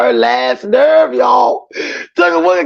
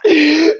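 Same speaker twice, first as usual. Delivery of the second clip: high burst of laughter; laughing fit; 4 semitones higher than usual. Real, not acted. Streamer joking about the kids' hair, laughing. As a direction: crack up at your own joke.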